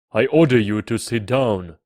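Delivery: loud royal order; commanding king. A narrator's reading. King gives order, louder.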